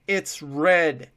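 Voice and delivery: P=A; frightened. A narrator's reading. Terrified prisoner reports below.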